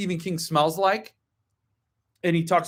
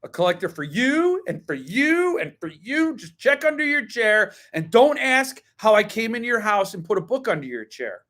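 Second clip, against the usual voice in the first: lightly voiced, higher talk-show giveaway cry; a hint of Oprah announcing gifts; 5 semitones higher than usual. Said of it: "I'd like to be Oprah".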